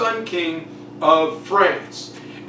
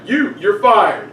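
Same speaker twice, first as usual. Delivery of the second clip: mock firing; 5 dB louder, slower than usual. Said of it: "when people speak out".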